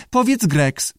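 high squawky echo; parroting lizard. A narrator's reading. Lizard repeats the keeper's words, squawky echo. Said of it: "powtórzył jaszczur".

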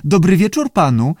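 high-pitched squawking greeting; talking salamander's high squawk; squawky lizard voice. A narrator's reading. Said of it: "ktoś skrzekliwie powiedział".

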